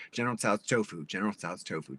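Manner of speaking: quick repeats of a tongue twister; tongue-twister drill; fast tongue twister. Shown as a demonstration. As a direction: rattle it off repeatedly. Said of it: "Say it, like, five times fast".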